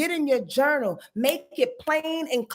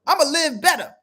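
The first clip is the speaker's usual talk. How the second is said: lazy Taurus voice; 2 semitones higher, 5 dB louder than usual. Retold or imitated. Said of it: "Taurus be like".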